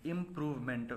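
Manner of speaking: इम्प्रूवमेंट in three distinct pieces, इम, प्रूव, मेंट; brief breaks inside इम्प्रूवमेंट; pauses between word parts. Shown as a demonstration. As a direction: separate prefix, root and suffix in इम्प्रूवमेंट. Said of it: "वहाँ pause का आना बिल्कुल आवश्यक है".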